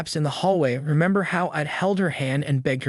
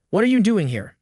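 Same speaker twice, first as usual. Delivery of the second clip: trembling; 5 semitones higher, 3 dB louder than usual. A narrator's reading. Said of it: "my voice trembling".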